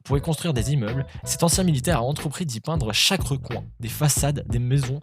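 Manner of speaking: steady news-style reading of a quirky story; article read-out. Acted. YouTuber reading an odd news article to viewers, news-read voice. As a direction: reads the piece like a news segment.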